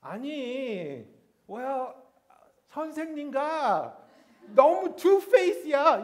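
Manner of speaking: imitating the Americanized Korean of cool second-gen kids; 교포 말투 흉내, 높고 큰 목소리; Korean-American teen slang. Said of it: "So I would talk to my mom like that".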